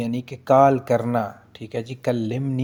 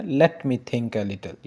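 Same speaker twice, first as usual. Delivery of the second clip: very slow gloss; much slower than usual. Shown as a demonstration. Teacher slowly glossing the phrase for students, drawn out. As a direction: let me think a little, stretched out word by word. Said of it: "यानी जैसे हमको कहते हैं ना".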